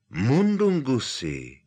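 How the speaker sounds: loud, slow startled call of the name; Harry recognizes the thief and calls out. Acted. Harry hails Mundungus in the street, loud calling out.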